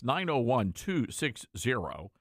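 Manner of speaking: number read slowly and clearly; slow repeat. Shown as a demonstration. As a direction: spell out each digit slowly. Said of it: "our telephone number".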